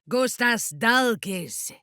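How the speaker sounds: high, slow spell words; slow incantation. Acted. Casting in battle, slow incantation. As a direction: draw out the spell.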